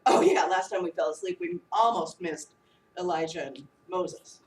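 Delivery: a hint of a clueless disciple, laughing; laughing mock disciple. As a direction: play the sleepy disciples for laughs, low and amused.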